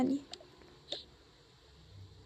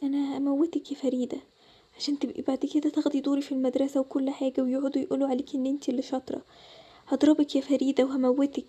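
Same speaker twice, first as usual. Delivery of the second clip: menacing sleep-talk. Acted. Mariam threatening Farida in her sleep.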